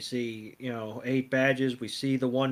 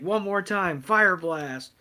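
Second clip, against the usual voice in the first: higher, louder rallying call; trainer's battle command; 5 semitones higher, 4 dB louder, slower than usual. Retold or imitated. Red orders his Pokemon to attack, commanding.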